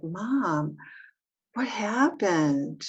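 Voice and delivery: put-on child's curious voice. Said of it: "just a child's curiosity".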